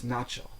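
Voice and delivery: начал with на stressed; stress on first syllable. Shown as a demonstration. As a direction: stress the first а of начал, second vowel reduced. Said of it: "the stress changes according to form".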